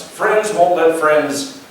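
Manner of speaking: very slow, leaving a blank; slowly, pausing for the congregation; slow open phrase. Shown as a demonstration. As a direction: draw it out and let them fill in the blank. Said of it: "just fill in the blank".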